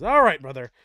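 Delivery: Tyrael's voice. Acted. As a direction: speak as a weary angel leader. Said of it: "he says".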